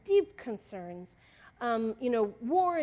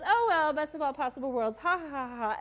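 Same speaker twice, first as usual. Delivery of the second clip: cheery tone; 3 semitones higher than usual. Retold or imitated. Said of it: "in a really cheery tone".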